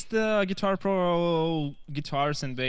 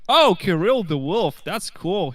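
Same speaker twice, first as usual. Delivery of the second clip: retold excitement; 3 semitones higher, 4 dB louder, slower than usual. Retells his first delighted reaction.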